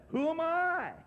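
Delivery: high, small, self-doubting voice; a lightly voiced meek Moses shrinking back; timid Moses. Moses doubting God's call.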